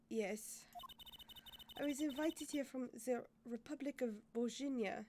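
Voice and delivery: put-on light French accent. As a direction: speak English with a soft French accent. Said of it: "I'm gonna drop that accent".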